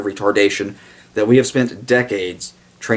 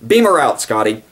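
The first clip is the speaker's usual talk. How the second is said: mock Star Trek command; 2 semitones higher than usual. Joking sci-fi aside, a lifted captain's command. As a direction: bark it like a starship captain.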